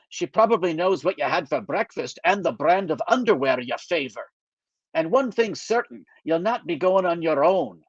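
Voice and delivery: put-on lightly Scottish older friend, dry; a mild Scottish brogue, wry; gentle Scottish lilt, teasing; Scottish accent. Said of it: "he still has a Scottish accent".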